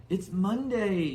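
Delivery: high, slow, loud whine; high slow childish whine; whiny Dudley. Acted. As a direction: drag it out like a spoiled boy.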